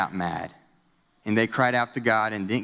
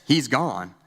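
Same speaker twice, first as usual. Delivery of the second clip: restrained imitation of a yell; mild retold yell. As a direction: call it out, only slightly raised. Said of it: "I just hear her yell".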